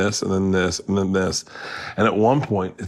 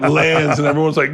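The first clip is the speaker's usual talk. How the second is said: normal talking voice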